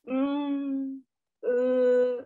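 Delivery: drawn-out thinking hums and ums; hesitant filler sounds. Shown as a demonstration. Teacher imitates a speaker hesitating with fillers, mock hesitant. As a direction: stall like someone searching for words. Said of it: "Kelihatan banget pemikir gitu ya".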